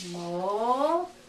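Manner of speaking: "Mochila" slowly broken into mo, chi, la; separated syllables. Shown as a demonstration. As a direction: pause between each syllable of "Mochila". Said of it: "Three syllables".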